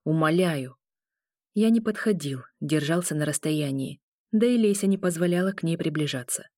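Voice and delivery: ordinary delivery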